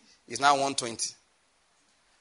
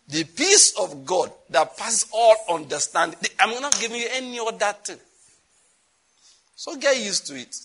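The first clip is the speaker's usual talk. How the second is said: raised proclamation; 6 semitones higher, 4 dB louder than usual. Acted. Preacher proclaiming God's peace.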